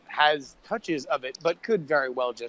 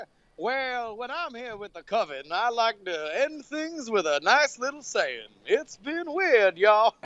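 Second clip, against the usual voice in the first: high, slow creepy creature voice; tiny homunculus voice; 8 semitones higher, slower than usual. Acted. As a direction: squeak it out like a possessed little creature. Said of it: "He's possessed!".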